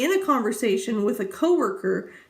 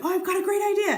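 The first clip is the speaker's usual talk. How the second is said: imitating husband; 9 semitones higher, faster than usual. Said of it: "Impression of my husband".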